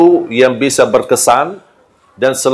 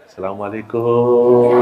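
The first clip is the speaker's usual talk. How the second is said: gentle greeting; 4 semitones lower, slower than usual. Shown as a demonstration. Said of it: "saya berubah lagi".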